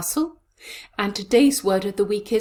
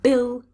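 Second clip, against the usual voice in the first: bill punched higher and louder, alone; a strong, raised bill; stressed syllable; 5 semitones higher, 5 dB louder than usual. Shown as a demonstration. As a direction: hit bill hard. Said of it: "it's on the fourth syllable".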